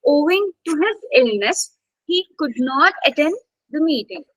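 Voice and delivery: teacher models stressing owing, illness, not, attend, meeting; stress on the content words. Shown as a demonstration. Teacher reading the sentence to student, stressing content words. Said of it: "So see, owing, illness, could not attend".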